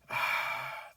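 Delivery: long breathy sigh. Real, not acted. Vlogger stuck on forgettable cast names, sighing. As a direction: let out a soft sigh.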